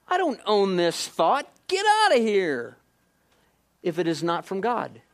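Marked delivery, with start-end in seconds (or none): 0.1-2.8 loud, firm dismissal; firm rebuke. Retold or imitated. Believer rebuking a stray thought, a firm loud dismissal. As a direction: throw the thought out with authority. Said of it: "you look at it and you go".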